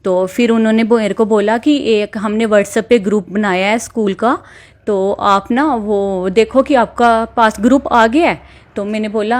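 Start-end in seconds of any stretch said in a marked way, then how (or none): 1.8-8.7 mildly imitating the slow caller. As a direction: spell it out slowly like a cautious stranger. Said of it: "तो बड़ी धीरे-धीरे बात कर रहा था".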